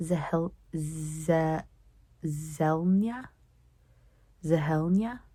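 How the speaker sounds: halting, questioning attempts at "Zehelnya"; unsure reader piecing "Zehelnya" together; sounding out a name. Real, not acted. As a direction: stretch "Ze-" slowly, then try "Zelnya?" with rising doubt.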